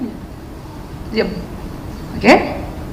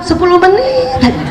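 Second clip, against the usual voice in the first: with a laugh, a bit higher; teasing a husband with a ten-minute promise, laughing; 6 semitones higher than usual. Shown as a demonstration. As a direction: say it lightly through a laugh. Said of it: "Ibu tetap bilang".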